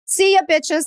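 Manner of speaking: high sassy kiss-off; high, bright farewell with attitude. Retold or imitated. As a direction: toss it off as a cheeky goodbye. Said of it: "I was like".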